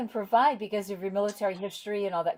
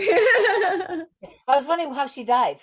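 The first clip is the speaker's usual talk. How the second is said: laughing; 9 semitones higher, 3 dB louder, slower than usual. Real, not acted. Laughing at own confusion.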